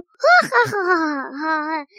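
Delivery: a big theatrical stage laugh; hearty stagey laugh. Acted. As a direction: laugh it off like a showman. Magician laughs off the trick.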